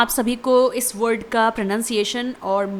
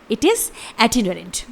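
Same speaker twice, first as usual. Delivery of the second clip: slow model of itinerant; careful teacher's repeat; slow clear pronunciation; much slower than usual. Shown as a demonstration. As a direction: say it slowly for learners. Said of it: "spelling है".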